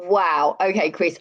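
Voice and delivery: usual speaking voice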